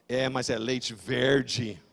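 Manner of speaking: low, slow accusing statement; ominous doorman. Retold or imitated. Doorman accusing his friend over the milk, low and ominous. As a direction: draw out "verde" as a damning verdict, falling. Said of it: "Ele olhou e falou".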